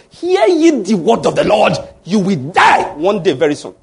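mock-solemn herald of doom, lightly voiced; prophetic pronouncement. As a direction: proclaim it like a prophet's warning. Voices a prophetic warning of death.

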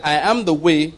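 proclaiming scripture to the congregation; scripture reading. Acted. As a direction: read the verses out with weight. Pastor rereads verse six.

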